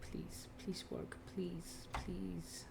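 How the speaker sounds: slow whispered begging; whispering. Real, not acted. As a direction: breathe out the plea. Whispering to the car.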